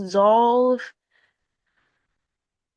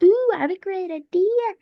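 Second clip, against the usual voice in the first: higher, eager mock delight; eager idea; 10 semitones higher than usual. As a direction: pitch it up like a sudden brainwave. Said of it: "I don't know why I said it like that".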